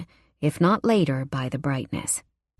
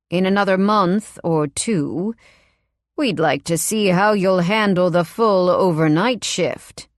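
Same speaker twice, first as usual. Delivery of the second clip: a hint of a smooth, fake-polite man; smooth it over with menace; lightly voiced oily boss. Boss smoothing over his threat, in a lightly oily voice.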